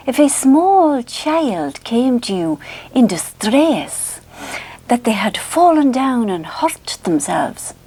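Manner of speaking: put-on slow, drawn-out Scottish accent; Roger Elliott. Vlogger quotes tape about a hurt child, Scottish accent impression. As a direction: intone it solemnly as a Scottish hypnotist. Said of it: "another lovely thing he goes".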